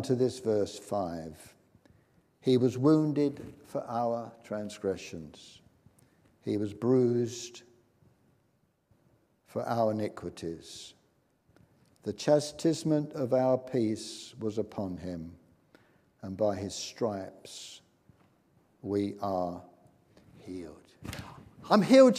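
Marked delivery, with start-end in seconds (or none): 2.4-20.9 slow, measured verse reading; solemnly paced Bible reading; scripture reading. Retold or imitated. Reading Bible verse aloud slowly. 21.7-22.2 loud, high shout of joy; imitated ecstatic outburst; exultant cry. Dying woman suddenly healed.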